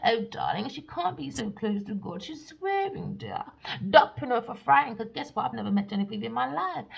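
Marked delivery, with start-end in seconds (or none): 2.2-3.4 whispered aside; hushed gossip. Real, not acted. Aside about swearing. 3.9-5.0 whisper. Acted. Whispered then repeated loudly.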